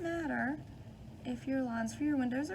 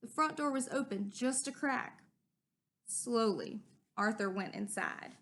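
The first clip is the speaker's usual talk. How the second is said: put-on lively storybook read-aloud for kids; animated children's story narration with character voices. A narrator's reading. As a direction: read it like story time with a class. Reading a picture book aloud to children.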